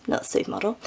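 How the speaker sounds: a quick whispered joke; whispered aside. Real, not acted. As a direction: whisper it as a side comment.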